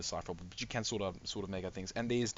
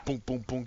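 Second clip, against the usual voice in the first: booming sound effect, pitched up; imitated booms; 4 semitones higher than usual. Shown as a demonstration. Game master sketching noises behind the door, imitated booms.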